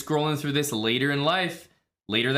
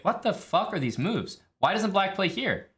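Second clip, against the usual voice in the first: exasperated outburst; 7 semitones higher than usual. Retold or imitated. Venting at engine's odd suggestions.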